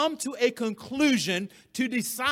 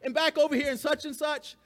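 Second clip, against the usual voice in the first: offhand Paul; 6 semitones higher, faster than usual. Retold or imitated. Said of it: "He's like".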